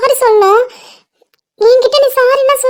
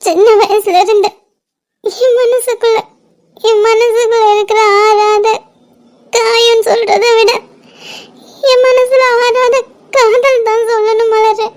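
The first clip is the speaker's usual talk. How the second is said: tearful confession. Acted. Tearful confession of secret love.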